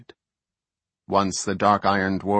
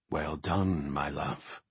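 soft, hushed praise; quietly, just for her; whispered; 5 semitones lower, 8 dB quieter, slower than usual. A narrator's reading. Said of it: "the Archdruid whispered".

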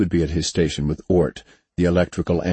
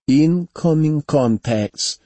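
loud, slow AI alert, higher pitch; called out; 9 semitones higher, 4 dB louder, much slower than usual. A narrator's reading. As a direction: call it over blaring alarms. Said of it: "Sonia called between the whirring alarms".

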